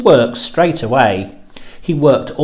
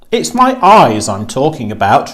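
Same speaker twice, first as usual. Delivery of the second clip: roared; 4 dB louder than usual. Acted. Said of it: "roared the giant".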